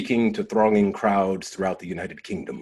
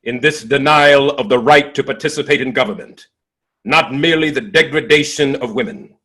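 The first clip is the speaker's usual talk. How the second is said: emphatic speech; 3 semitones higher, 4 dB louder than usual. Retold or imitated. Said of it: "expressed myself clearly in emphatic and unequivocal language".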